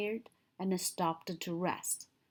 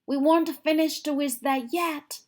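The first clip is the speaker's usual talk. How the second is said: loud, higher, indignant protest; annoyed camper; 7 semitones higher, 6 dB louder than usual. A narrator's reading. Camper scolding George for dousing the fire. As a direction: let the complaint ring out. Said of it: "yelled the camper".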